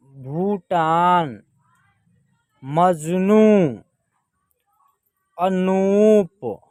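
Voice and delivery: very slow word-by-word reading, long vowels held; drawn-out model reading. Shown as a demonstration. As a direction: stretch each long vowel. Teacher models words for learners.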